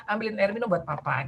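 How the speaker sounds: a gentle, plain-level rephrase of the order; sopan diulang. Retold or imitated. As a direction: say it kindly to the child. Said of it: "paraphrasing lagi ya, mengatakan ulang". (ibu mengulang permintaan dengan sopan dan lembut)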